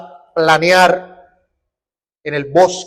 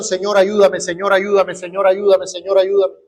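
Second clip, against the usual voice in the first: mock rote prayer. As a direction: parody an empty repeated prayer. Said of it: "Y lo repite y lo repite".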